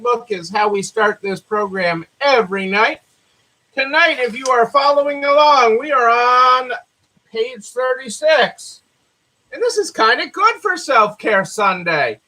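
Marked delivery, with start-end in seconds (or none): none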